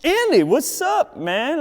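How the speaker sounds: high, loud, slow hey-buddy call; loud greeting. Retold or imitated. Brendan greeting Andy after yelling, high loud call. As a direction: greet your friend loudly across the bus. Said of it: "the weirdest, loudest person on the bus".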